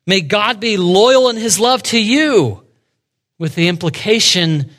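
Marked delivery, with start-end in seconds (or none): 0.0-2.6 sarcastic blessing. Retold or imitated. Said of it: "Naomi sarcastically says".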